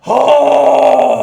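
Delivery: very high, very loud oh; anguished cry. Real, not acted. Fan reacting to the ending, high and loud. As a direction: cry out in grief.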